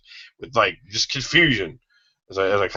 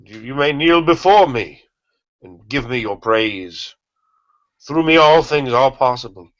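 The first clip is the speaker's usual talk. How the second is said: grand godlike proclamation, raised pitch; booming arrogant alien overlord; 4 semitones higher, 3 dB louder than usual. Acted. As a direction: declare yourself a god to kneeling crowds. Proclaims himself a god.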